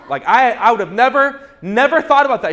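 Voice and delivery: high, loud mock amazement with a laugh; sarcastic. Mocking the chiropractor's insight, with high laughing sarcasm. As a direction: play fake amazement, laughing.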